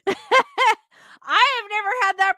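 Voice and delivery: slow, laughing through the words. Real, not acted. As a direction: talk while still giggling. Still laughing while talking.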